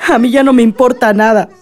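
crying in defeat; tearful. Acted. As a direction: voice catching on a sob. Grieving daughter refuses to go.

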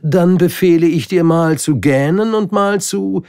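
high, loud, faltering order; stammering annoyed king. Acted. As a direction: lose the thread mid-command. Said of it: "er stammelte ein wenig und schien verärgert". (stammelnder König, hoch und laut)

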